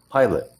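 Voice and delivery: "Pilot" with a quick "eh" second vowel; reduced schwa. Shown as a demonstration. Teacher correcting student's "Pilot". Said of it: "to a, eh".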